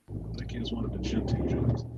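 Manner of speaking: deep put-on voice. Shown as a demonstration. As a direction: drop the voice far down into a deep rumble. Repeats the line in another voice.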